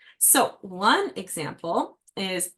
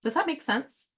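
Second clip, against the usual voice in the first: gentle questioning; 5 semitones higher than usual. Shown as a demonstration. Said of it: "you might wanna go".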